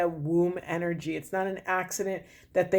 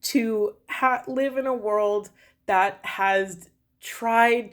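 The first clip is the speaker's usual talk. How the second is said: slow, halting, moved to the edge of tears; getting emotional. Real, not acted. Card reader overcome while speaking of feminine pain, slow and emotional. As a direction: let the feeling slow every word down. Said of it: "I'm getting emotional because".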